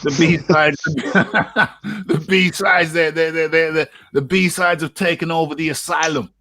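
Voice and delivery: high-pitched, laughing through the words; tickled, stumbling over words with laughter. Real, not acted. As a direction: crack up while getting it out. Cracking up over his joke.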